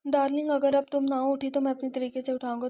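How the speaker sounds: teasing threat. A narrator's reading. Husband threatens to wake wife.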